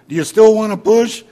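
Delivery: loud, high shouted question; calling out. Acted. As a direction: shout the question across the dark. Husband calls into the dark.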